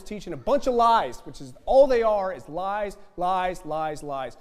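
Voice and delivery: loud, rising denunciation; preaching at full force. Real, not acted. Preacher railing against false prophets, loud. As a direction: pound each word of lies.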